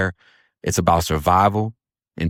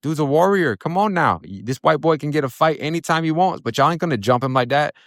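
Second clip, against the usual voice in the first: retold high-pitched objection, pleading his case; indignant protest; 8 semitones higher than usual. Inmate standing up for the white boy to the others, indignant protest.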